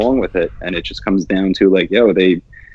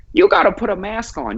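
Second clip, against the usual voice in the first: mock official voice; 10 semitones higher than usual. Mocking a mask rule enforcer.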